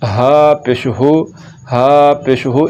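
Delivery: HU kept short, not drawn out; slow spelling drill, short final हु; short vowel. Shown as a demonstration. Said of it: "इसको लंबा नहीं करना".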